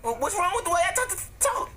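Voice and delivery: Porky Pig stutter. Acted. Speedy stammering to Black Yoshi in a Porky Pig voice. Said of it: "you sound like Porky Pig".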